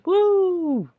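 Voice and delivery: a high, loud whoop of disbelief. Real, not acted. Commenter whooping at where the country is heading, high and loud. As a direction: let out a big high woo. Shocked at where things head.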